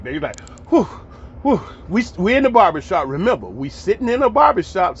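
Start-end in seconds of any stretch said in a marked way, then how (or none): 0.7-1.6 dramatic whoo. Retold or imitated. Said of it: "they be real dramatic".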